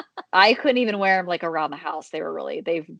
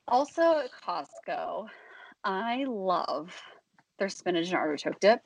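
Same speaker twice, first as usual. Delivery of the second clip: out of breath. Real, not acted. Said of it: "I'm out of breath".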